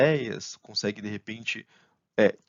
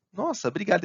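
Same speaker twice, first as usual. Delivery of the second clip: higher, grateful thank-you; smiling thanks; 6 semitones higher, 3 dB louder than usual. Acted. Thanking a helpful colleague, smiling and grateful. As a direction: act out thanking with a smile. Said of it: "aí você dá aquele sorriso".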